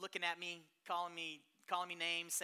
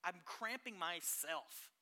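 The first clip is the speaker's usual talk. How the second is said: mock frustrated grumble; lightly voiced defeated adult; half-hearted mock complaint; whiny self-doubt; 3 dB louder than usual. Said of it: "we tend to say".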